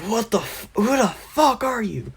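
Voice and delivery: high-pitched, cut-off then restarted question; startled disbelief. Acted. Bakugo faces Kyoshi's disgusted look, startled high question. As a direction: squeak it out in mock alarm.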